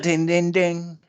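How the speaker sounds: calling out ding ding like a ring bell; loud bell imitation. Shown as a demonstration. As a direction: belt out the bell sound, loud and high. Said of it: "There's the bell".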